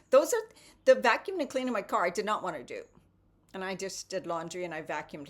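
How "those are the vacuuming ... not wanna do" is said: high and loud, quick and giggly; laughing confession. Real, not acted. Admitting to viewers she dreaded chores, laughing loudly. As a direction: laugh it out, half embarrassed.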